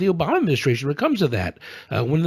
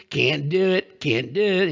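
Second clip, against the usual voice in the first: imitating George H. W. Bush; slower than usual. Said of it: "Saddam Hussein".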